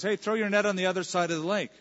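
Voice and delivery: acted-out hail to fishermen; calling out. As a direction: call a quick instruction across the water. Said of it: "Calls out".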